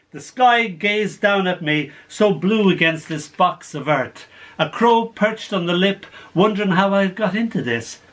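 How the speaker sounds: measured, paused dramatic narration; poem recital. Acted. Poet tells of girl fallen in a grave, measured recital. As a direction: recite it as a remembered tale.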